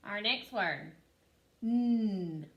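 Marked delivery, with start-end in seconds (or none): 1.6-2.5 N-ot split into its two sounds, stretched; teacher modelling blending; sounding out. Shown as a demonstration. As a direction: pull the sounds of N-ot apart. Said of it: "let's sound out this word".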